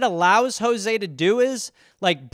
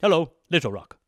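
Sebastian Gorka; 5 semitones lower, 4 dB quieter, faster than usual. Acted. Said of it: "Where are you from?".

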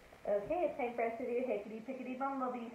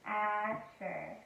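"Asher" stretched, unaccented; said together; 3 semitones lower than usual. Shown as a demonstration. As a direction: say "Asher" slowly and smoothly for a child to join. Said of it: "let's say it together".

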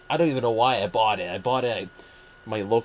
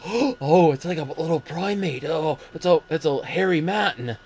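excited exclaiming; 5 semitones higher than usual. Retold or imitated. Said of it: "they're like".

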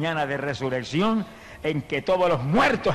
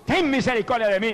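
trumpet-like cry; 7 semitones higher than usual. Retold or imitated. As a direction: cry out higher, calling to Jesus. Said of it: "levantó la voz como una trompeta".

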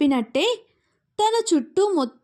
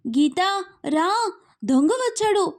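calling out for help; 5 semitones higher than usual. Acted. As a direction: stretch out the name, then cry thief. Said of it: "అని అరిచింది".

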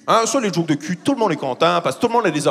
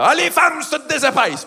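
high-pitched sarcastic declaration; Yvon Deschamps; 10 semitones higher than usual. Retold or imitated. Comedian quoting a sarcastic humorist about women, mock exclamation. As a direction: exclaim it with obvious put-on irony. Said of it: "Yvon Deschamps faisait ça".

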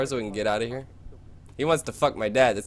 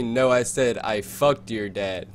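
imitating the robber; slower than usual. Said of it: "He said".

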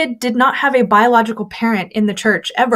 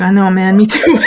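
laughing agreement; 3 dB louder than usual. Retold or imitated. Hungry narrator commiserates, laughing.

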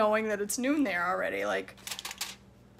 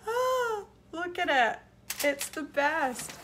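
laughing delight; 6 semitones higher, slower than usual. Real, not acted. Laughing over her new shirt.

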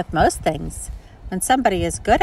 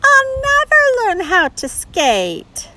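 discouraged; 4 dB louder than usual. Acted. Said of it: "Sounds like she's a little discouraged".

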